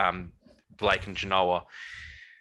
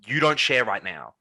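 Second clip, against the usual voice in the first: retold triggered demand; 3 semitones higher than usual. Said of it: "I was really emotionally triggered".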